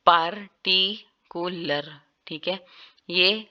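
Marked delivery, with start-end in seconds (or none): 0.1-2.0 पार्टिकुलर drawn out slowly with the R sounded; पार्टिकुलर with American R. Shown as a demonstration. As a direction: stretch पार्टिकुलर, keep the R. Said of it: "आर जो है उसमें क्या करते हैं".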